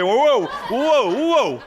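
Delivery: loud high mock alarm; passengers whooping. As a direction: whoop like on a rollercoaster. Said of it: "like this".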